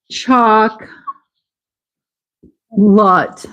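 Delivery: "Chalk", long pause, "Lut"; two split syllables. Shown as a demonstration. Teacher shows how to pronounce chocolate, in separate syllables. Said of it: "as far as how to pronounce it".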